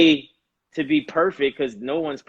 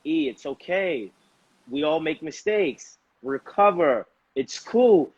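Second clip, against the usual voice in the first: calm self-reassurance. Retold or imitated. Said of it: "I'm the kid and I'm the father".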